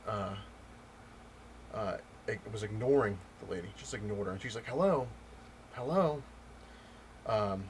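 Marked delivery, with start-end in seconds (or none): 4.6-6.2 louder, higher call for attention; imitating an irritated customer; impatient hello. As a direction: call out to someone ignoring you. Lady calling out, being ignored.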